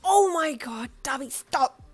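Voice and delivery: loud, high exasperated outburst; exasperated groan. Acted. Cutting Darby off mid-joke, loudly exasperated. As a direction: cry out, mortified by the partner. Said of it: "You groaned, smacking your hand".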